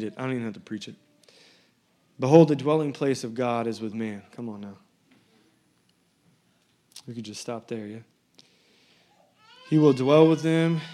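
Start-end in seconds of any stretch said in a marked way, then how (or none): 2.2-4.2 loud voice. Acted. Preacher voicing the voice from the throne, loud proclamation. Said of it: "a loud voice from the throne". 9.7-10.8 high, loud, slow proclamation. Acted. Voice from the throne announcing to all, loud and drawn out. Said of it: "a loud voice from the throne".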